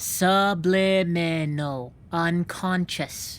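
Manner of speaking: "Subliminal" said slowly, syllable by syllable; slow correction. Shown as a demonstration. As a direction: spell out "Subliminal" slowly and patiently. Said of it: "S-, submarinable?".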